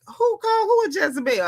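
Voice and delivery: high-pitched mock indignation; high, put-on incredulous question; Portia.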